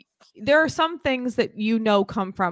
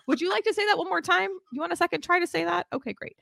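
teacher tone shift; 8 semitones higher, faster than usual. Retold or imitated. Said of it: "clear shift, like, in my tone of voice".

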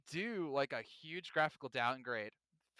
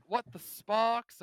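mock British; 7 semitones higher, 7 dB louder, much slower than usual.

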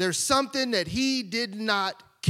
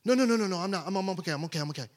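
calm reassurance; much faster than usual. Acted. Man reassuring the crowd he is fine, gently fading. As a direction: settle them down, gently. Man calmly refuses help.

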